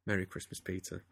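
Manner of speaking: low, soft, contented purr. A narrator's reading. Sleepy Egon answering his lover, purring. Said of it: "opened half-lidded eyes and purred".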